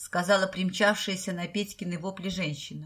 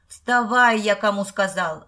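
окрик; 8 dB louder than usual. A narrator's reading. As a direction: yell at him to get up. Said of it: "заорал он". (громко, сердито орёт)

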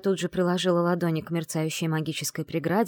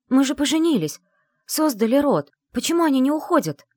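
desperate; 8 semitones higher, 6 dB louder than usual. Acted. Wife pleads during dragon attack.

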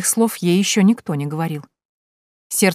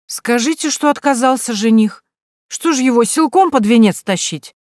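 careless tipsy reply; 6 semitones higher, 4 dB louder than usual. Acted. Tipsy daughter shrugs off mother.

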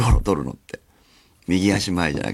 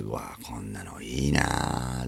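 whisper; 10 semitones lower, 10 dB quieter, much slower than usual. Real, not acted. Closing inner thought.

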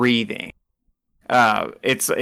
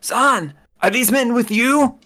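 put-on high, thin voice of an old man; 12 semitones higher than usual. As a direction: play the old kitchen man, pitched high. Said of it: "let me remember his voice".

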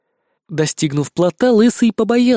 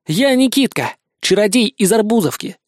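put-on high, proud boy's voice; a boy posing as a fearsome wizard; grand title; 5 semitones higher than usual. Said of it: "придумал грозный титул Никитка". (гордо, звонко)

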